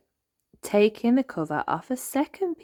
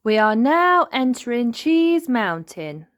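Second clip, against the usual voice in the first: lightly voiced Miss Rabbit; 7 semitones higher, 7 dB louder than usual. Miss Rabbit announces the cave.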